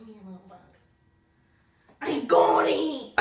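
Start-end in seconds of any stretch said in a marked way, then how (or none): 2.0-3.1 loud triumphant shout; excited. Real, not acted. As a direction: yell in triumph. Catches the bug.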